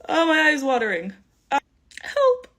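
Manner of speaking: high strained cry of help. Real, not acted. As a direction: yelp it, eye stinging. Contact lens stings her eye.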